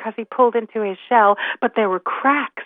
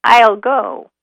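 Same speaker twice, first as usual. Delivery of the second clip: rickety little grandmother spider; volunteer firmly in a little old voice; slightly raised, louder elderly voice; small rickety voice; 3 semitones higher, 5 dB louder than usual. Acted. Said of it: "small and rather rickety voice".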